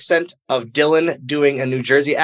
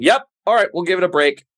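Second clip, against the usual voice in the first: Kevin Dunn; 6 semitones higher, faster than usual. Retold or imitated. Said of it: "Kevin Dunn says over the thing".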